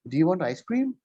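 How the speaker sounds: "cream" lifted at the end; rising question. Shown as a demonstration. Teacher modelling a yes or no question. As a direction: ask with a rise on "ice cream". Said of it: "This is known as the rising intonation".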